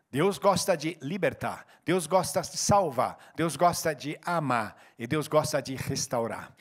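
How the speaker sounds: slow, deliberate litany; slow, emphatic sermon refrain on what God loves; slow preaching refrain. Acted. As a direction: lean on each gosta, taking time.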